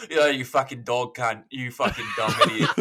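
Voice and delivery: casual Australian banter, half laughing; imitated Australian accent. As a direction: toss out friendly abuse in mock Australian. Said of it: "they're all Australian".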